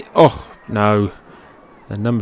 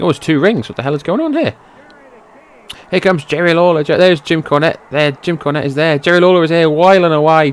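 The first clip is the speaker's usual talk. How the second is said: excited call; 4 semitones higher than usual. Real, not acted. Commentator spotting Jerry Lawler arriving to save them, excited. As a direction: ride the surprise of the save.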